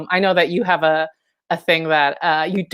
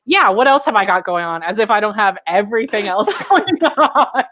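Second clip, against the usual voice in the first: mock-eager sarcasm breaking into laughter; sarcastic self-quote. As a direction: play up the sarcasm, then laugh through it. Acting own sarcastic reply, laughing.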